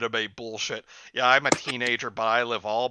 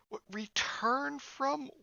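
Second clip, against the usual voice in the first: whisper; 12 semitones higher, 5 dB quieter, slower than usual. Real, not acted. Whispered reread of script.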